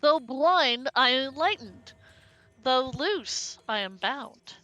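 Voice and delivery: slow, measured riddle recital; riddle reading. Acted. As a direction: read it like an old riddle. Reads riddle note aloud.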